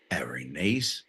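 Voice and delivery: unvoiced, muttered whisper to himself. Real, not acted. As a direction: breathe the phrase out without voice. Repeating the slang under breath.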